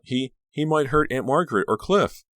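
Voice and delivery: high, choked words; forced out through fear. A narrator's reading. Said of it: "Danielle choked out".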